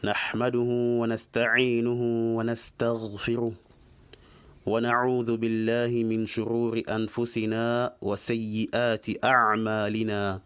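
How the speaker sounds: measured, even-pitched Arabic recitation; formal opening invocation. Acted. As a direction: recite the opening formula in steady phrases. Recites the opening sermon formula.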